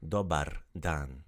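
"Dobar" with a soft tapped r, slow. Shown as a demonstration. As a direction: tap the r in "Dobar" lightly. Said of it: "Do a little softer R".

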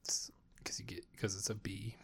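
whispered buzzy insect voice; lightly voiced bee. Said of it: "this is my bee voice".

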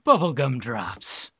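slow, drawn-out fairy-tale telling; storybook narrator. Pretend. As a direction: savor each word like a spooky bedtime tale. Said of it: "the Nightmare Before Christmas one".

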